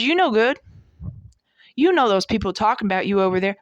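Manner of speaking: a light sneering voice of the enemy, quick at the end; voicing the enemy. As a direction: taunt her like the devil whispering lies. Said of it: "this is how he talks".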